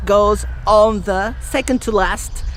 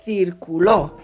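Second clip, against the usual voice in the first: circuló stressed on the last syllable, circu-LÓ; Spanish stress demo; 3 semitones lower, 3 dB quieter than usual. Shown as a demonstration. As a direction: land hard on the LÓ of circuló. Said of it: "different meaning depending on what syllable".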